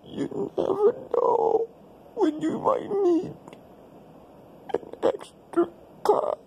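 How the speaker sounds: put-on a light comic Indian accent, held throughout. Vlogger in character telling viewers his day, in an Indian accent. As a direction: play a stereotyped Indian man in a mild Indian accent. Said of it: "why I talk like this?".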